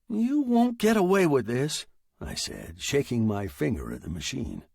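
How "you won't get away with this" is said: high-pitched, indignant warning; heated threat. Acted. Writer warning his machine, high and indignant.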